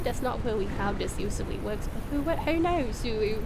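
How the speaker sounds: attempted British mum with babyish w-for-r sounds; British uwu baby-talk mum. Streamer doing requested redeems, British uwu baby-talk voice. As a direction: mix a British accent with cutesy baby talk. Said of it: "while I'm doing uwus and mum voices".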